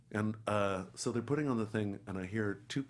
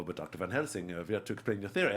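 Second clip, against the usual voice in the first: put-on quick, lightly German-accented scripted line; 3 semitones lower than usual. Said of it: "both talking in these German accents".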